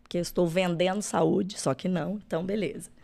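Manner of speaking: raspy, cracking voice from a sore throat; hoarse cracking voice. Real, not acted. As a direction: speak through a hoarse, cracking voice. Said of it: "desculpa essa voz de taquara rachada". (voz rouca e rachada)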